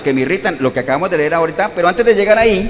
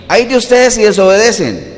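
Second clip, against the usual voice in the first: mild threat; 3 dB louder than usual. Shown as a demonstration. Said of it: "Es una amenaza ya".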